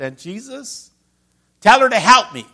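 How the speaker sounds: high, loud, put-upon plea; whiny demand. Acted. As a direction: whine at Jesus like an overworked sister. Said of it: "I could just hear it".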